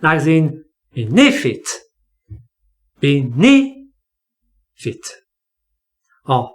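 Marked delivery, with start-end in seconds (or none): 1.1-1.7 benefit with the stress on BEN; BEN-e-fit, weak last syllable; stress before final syllable. Shown as a demonstration. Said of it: "stress is before the final syllable". 3.0-3.8 benefit broken up, fit left weak; BEN-e ... fit, pausing before the weak ending; stress before final syllable. Shown as a demonstration. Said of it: "stress is before the final syllable".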